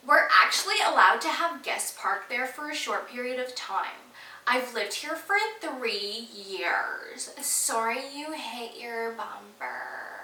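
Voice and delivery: slow, smug, half-whispered put-down; snotty neighbor voice. Retold or imitated. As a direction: play her as condescending and unbothered. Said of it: "That's what I think she sounds like".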